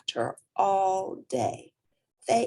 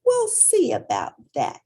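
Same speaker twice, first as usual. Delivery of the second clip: stubborn retort; 5 dB louder than usual. Acted. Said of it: "stomped off".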